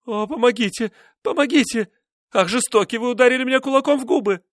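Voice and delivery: high, loud desperate cries; screaming for help. A narrator's reading. Wife being beaten, screaming for help. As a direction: shriek for help as he hits you. Husband strikes her.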